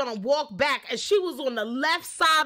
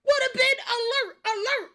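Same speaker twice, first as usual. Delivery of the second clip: mock call; 7 semitones higher than usual.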